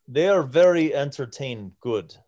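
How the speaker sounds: lightly voiced giant in halting speech; a hint of a foreign-tongued giant; broken Common. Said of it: "in broken common".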